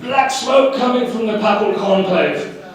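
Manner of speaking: slow, earnest reporter voice; mock a solemn on-site correspondent; news reporter. Mimicking the papal conclave reporters, slow mock-grave. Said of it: "the reporting on site".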